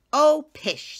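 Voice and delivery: high, loud scoffing; dismissive mother. Acted. Mother dismissing her daughter's worry, high scoffing. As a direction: brush it off fondly.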